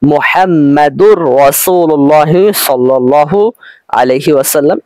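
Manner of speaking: "মুহাম্মাদুর রাসূলুল্লাহ" slowly, ending the first word in r, merged into the next; wrongly joined pronunciation. Shown as a demonstration. Teacher showing students the reading not allowed here, joined r pronunciation. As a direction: hold a doubled r from "মুহাম্মাদুর" into "রাসূলুল্লাহ". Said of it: "এভাবে উচ্চারণ করতে পারবো না".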